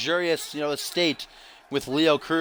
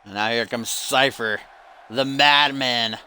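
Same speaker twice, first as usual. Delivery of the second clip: announcer hype; 2 semitones lower, slower than usual. Acted. Commentator hypes Cypher's entrance.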